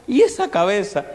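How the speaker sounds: high, loud, appalled question; comic shock. Retold or imitated. Father asking doctor about the newborn's pointed head, comically appalled. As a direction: exclaim it in mock horror.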